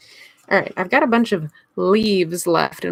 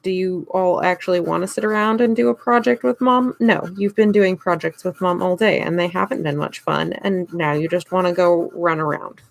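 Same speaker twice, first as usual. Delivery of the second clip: exasperated; 5 dB louder than usual. Retold or imitated. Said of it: "it's like".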